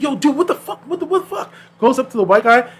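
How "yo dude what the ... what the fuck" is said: mock yelp after being pushed; startled outrage. Skater shoved off his board, shocked outburst. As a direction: voice jumping up in shock. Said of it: "He's like".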